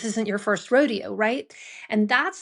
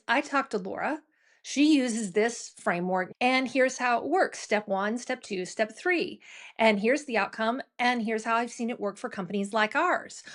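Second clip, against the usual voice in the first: assured, step-by-step pitch with lifted endings; confident pitch. Retold or imitated. Champion pitching a consultant with a framework, confident. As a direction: sell it like you believe it. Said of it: "their pitch then becomes".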